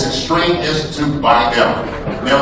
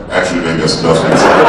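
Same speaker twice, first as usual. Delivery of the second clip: lower, nerdy white guy correcting; mock white guy impression, lower pitch; 8 semitones lower, 4 dB louder than usual. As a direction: play a know-it-all white guy, lower. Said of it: "It's a white guy like".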